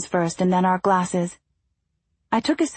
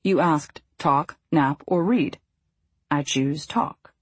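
trying not to laugh; 4 semitones lower, slower than usual. A narrator's reading. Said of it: "He stifled a laugh".

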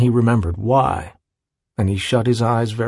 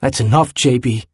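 sharp. Acted. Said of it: "Willem said sharply".

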